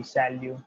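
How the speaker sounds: shall you said as "sa-lyu", no final T; Salut without the T. Shown as a demonstration. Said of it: "read it like this by avoiding the T".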